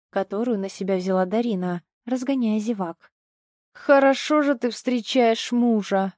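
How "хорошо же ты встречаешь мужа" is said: slow, hoarse sneer; husband's slow wheezing jab; hoarse retort. Acted. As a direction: rasp it out slowly at her. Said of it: "прохрипел Толик".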